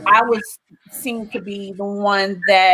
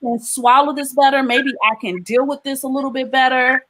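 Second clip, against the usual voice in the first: retold pleading prayer; 4 semitones higher than usual. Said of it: "this is exactly what I said".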